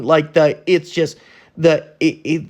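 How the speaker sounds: angry stammer, words tripping up; stuttering. Real, not acted. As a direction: stumble over the words in anger. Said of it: "I'm stuttering 'cause that's how mad I am".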